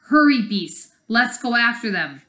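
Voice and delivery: rally the beasts; hammed-up villain shout; villain order.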